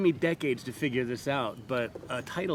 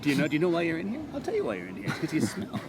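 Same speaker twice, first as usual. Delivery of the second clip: mock verbal abuse; 4 semitones higher, faster than usual. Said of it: "it amused me to verbally abuse them".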